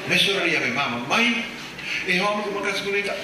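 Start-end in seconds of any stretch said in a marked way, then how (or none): 1.1-3.1 put-on higher, excited girlish voice; lightly voiced bride; mock daughter. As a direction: gush to mom about him. Daughter voiced to her mother.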